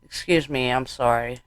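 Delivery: choked apology. Acted. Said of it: "holding back tears".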